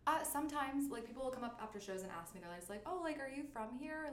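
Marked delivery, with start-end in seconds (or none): 2.8-4.1 put-on Valley Girl tinge. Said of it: "a Valley Girl tinge".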